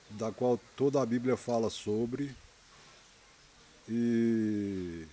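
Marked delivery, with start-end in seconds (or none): 3.9-5.1 choking again; swallowed wrong way, sputtering. Real, not acted. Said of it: "cara, engasguei de novo".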